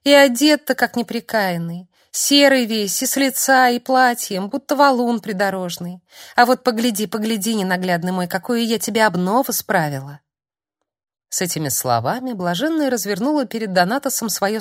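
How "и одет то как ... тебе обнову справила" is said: put-on higher, fond simple girl's voice; a lightly voiced doting holy fool; high, tender girl coaxing her beloved; girlish Svetla voice. Svetla's fond speech to Donatos.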